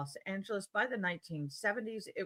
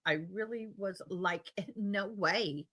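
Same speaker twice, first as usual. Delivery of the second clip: put-on Valley Girl filler like. Shown as a demonstration. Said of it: "like as a filler quote".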